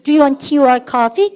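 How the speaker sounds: very slow, words stretched out for repeating; drawn-out model for the class; slow model reading. Shown as a demonstration. Teacher modelling the question slowly for the class. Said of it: "시작".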